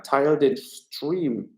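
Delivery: very slow, each word spaced out; slow emphatic appeal. Shown as a demonstration. Streamer urging viewers to share, slow and deliberate. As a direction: drag it out to press viewers. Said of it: "Alle den Stream teilen".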